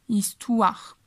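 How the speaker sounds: "Histoire" said slowly, its "oi" sounding like "wa"; French pronunciation demo. Shown as a demonstration. Teacher showing students how to say "Histoire". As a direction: model the word "Histoire" with "oi" as "wa". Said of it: "como si fuera una U y una A".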